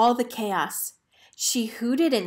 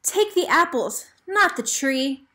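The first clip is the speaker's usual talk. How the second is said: mild yell; 5 semitones higher than usual. Acted. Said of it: "yelled Cinnamon Cobbler".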